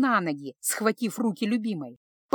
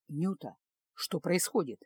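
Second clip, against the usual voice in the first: demanding husband; 4 semitones lower, 7 dB quieter than usual. A narrator's reading. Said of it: "требовательно спросил".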